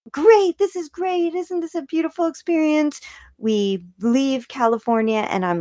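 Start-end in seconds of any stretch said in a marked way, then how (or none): 0.1-3.0 mock cheerful. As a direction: gush with fake delight. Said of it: "and then I'm like".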